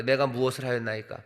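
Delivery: measured, mannerly reading; overly dignified. Shown as a demonstration. David answering his scolding brother, overly dignified. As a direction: recite it with formal composure. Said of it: "너무 점잖죠".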